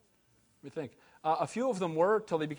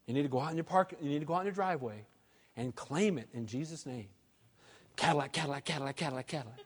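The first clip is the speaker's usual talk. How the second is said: softer, hushed mock preacher chanting his claim; preacher mocking a TV prosperity preacher, softer sing-song chant; 6 semitones lower, 9 dB quieter, faster than usual. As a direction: lightly ham up a TV faith-healer naming a Cadillac. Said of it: "I've seen a guy on T V doing that".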